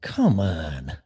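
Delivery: whispered exasperation; weary whispered come on; exasperated. Real, not acted. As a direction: breathe it out in disbelief. Exasperated aside.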